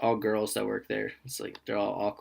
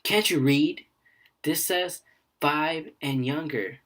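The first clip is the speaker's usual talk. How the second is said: higher-pitched mock scolding, not really yelled; mild mock yell, pitched up; retold yell; 4 semitones higher, slower than usual. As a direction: imitate an indignant woman telling off a kid. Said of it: "she yelled at a kid".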